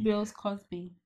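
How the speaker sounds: "Bill's Cosby" with a stray S tacked onto Bill; adding extra S's. Real, not acted. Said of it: "you adding extra S's in there".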